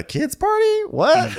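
very high, incredulous questioning; mock disbelief. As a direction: imitate an aghast guest. Candy aghast at the game.

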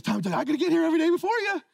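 high, loud, driven vow; fired-up declaration. Retold or imitated. Rookie Brady telling Rodney why he's early, fired-up and loud. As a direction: shout it like a promise to yourself.

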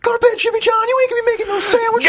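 very high-pitched scolding Southern mother; country mama. Acted. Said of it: "it's Jimmy John's fan fiction".

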